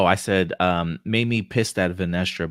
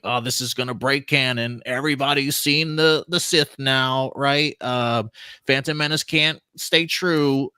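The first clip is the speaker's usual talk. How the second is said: higher, slow know-it-all nerd voice; fedora neckbeard; 7 semitones higher than usual. Retold or imitated. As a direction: play the smug neckbeard fanboy. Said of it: "that's my impression".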